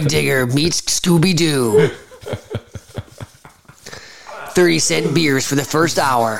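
lightly voiced rally announcer; monster truck ad. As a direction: hype the rally like a radio ad. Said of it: "commentating Monster Truck Rally".

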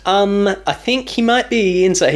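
high, hammed-up ooh; spooky mock voice. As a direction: tease it like a cheesy horror line. Mocking spooky movie line.

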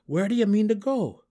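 high, loud, incredulous question; astonished gnome outburst; demanding. A narrator's reading. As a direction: demand an answer, voice leaping up. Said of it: "he demanded".

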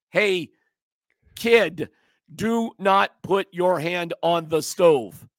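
put-on slow, firm talk to a kid; talking to a child. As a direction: warn a child slowly, word by word. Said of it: "it's like you're dealing with a child".

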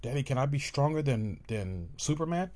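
put-on a small child pleading with daddy. Child asking daddy to fly, high and eager.

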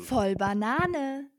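slow, loud title announcement; drawn-out title call. Acted. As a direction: announce the show name slowly. Podcast-Titel angesagt. (langsam gedehnter Titel)

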